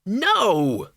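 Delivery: very high little squeak; squeaked refusal. Acted. Arthur as a bat on the ceiling, squeaking.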